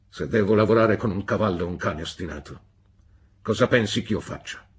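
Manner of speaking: loud, tight-lipped threat; stern menace. A narrator's reading. Stepfather alone with David, menacing. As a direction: put the question as a warning, lips pressed thin. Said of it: "stringendo le labbra fino a farle diventare una linea sottile".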